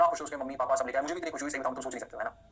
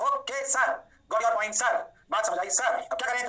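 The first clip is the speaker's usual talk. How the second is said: mock student reply; 5 semitones higher, 4 dB louder, slower than usual. Teacher voicing students again.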